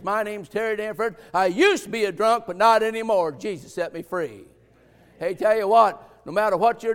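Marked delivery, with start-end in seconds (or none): 0.0-4.5 proud, freed voice; victorious testimony. Shown as a demonstration. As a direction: say it like a man set free. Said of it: "you'd say it like this".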